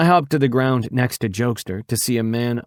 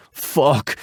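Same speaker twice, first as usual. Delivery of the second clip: angry scream; 4 semitones higher than usual. Acted. Biker finding his phone dead, screaming a curse. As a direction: vent the frustration in one burst. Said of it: "he screams".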